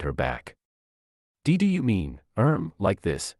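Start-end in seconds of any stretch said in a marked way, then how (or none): 1.4-3.3 shy, breathy and halting; hesitant breathy voice. Acted. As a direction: stammer it out, all breathy and bashful. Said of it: "she said in a hesitant, breathy voice".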